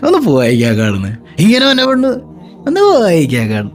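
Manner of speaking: a hint of a coy, bashful wife; lightly voiced shy wife brushing off the compliment. Wife bashfully answering her husband's pet name, lightly voiced coyness.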